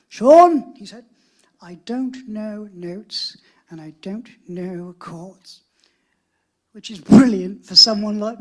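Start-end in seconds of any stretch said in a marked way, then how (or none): 0.1-0.7 much louder, higher call of the name; loud posh call. Retold or imitated. Posh producer shouting Sean's name loudly. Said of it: "he had a very posh accent". 1.6-5.6 put-on posh accent. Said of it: "he had a very posh accent".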